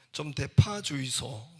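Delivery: loud, drawn-out Gyeongsang request; Gyeongsang dialect. Acted. Young customer asking restaurant owner, slow Gyeongsang dialect. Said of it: "경상도 청년이 서울에 와서".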